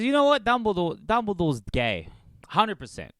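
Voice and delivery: announcing it like big news; mock J.K. Rowling. Comic telling his audience about J.K. declaring Dumbledore gay, lightly voiced. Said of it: "And then she goes".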